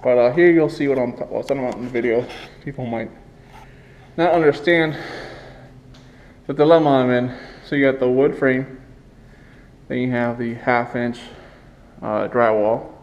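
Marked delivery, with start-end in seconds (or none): 0.0-7.4 talking behind a wet dust mask; muffled by mask. Real, not acted. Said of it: "I apologize if my voice sounds a little muffled".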